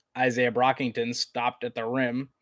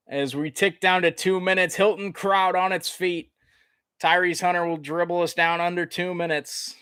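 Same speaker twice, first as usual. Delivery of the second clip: slightly raised, steady sportscaster call; live play-by-play; 5 semitones higher than usual. Real, not acted. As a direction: call the game as it runs. Calls live basketball play-by-play.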